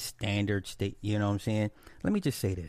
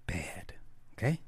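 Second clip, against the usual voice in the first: whisper; 2 semitones lower, 5 dB quieter than usual. Real, not acted. Aside dropping to a whisper.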